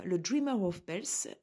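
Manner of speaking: the card name said in a light English accent. Shown as a demonstration. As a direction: say Dreamer of Bells the English way, lightly. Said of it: "je fais avec mon accent, euh, anglais".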